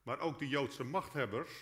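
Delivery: ordinary talk, nothing marked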